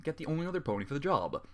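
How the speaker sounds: plain reading voice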